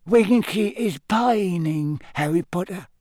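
a little servant elf grieving for a friend; sad elf voice. A narrator's reading. Dobby tells Harry sadly about Winky in a high elf voice. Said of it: "Dobby whispered sadly".

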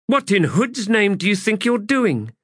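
high, loud furious demand; angry demand. A narrator's reading. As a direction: bark it at him. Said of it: "At that woman's bark".

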